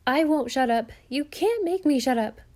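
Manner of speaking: loud, high defiant cry. A narrator's reading. Jenny crying out in defiance at her uncle. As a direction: shout it back in defiance. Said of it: "cried Jenny".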